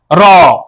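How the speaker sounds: "रो" said slowly and clearly, r tapped on the palate; slow demo syllable. Shown as a demonstration. Teacher modelling "रो" slowly for students. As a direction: spell out "रो" for the class, unhurried. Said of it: "हम बोलेंगे".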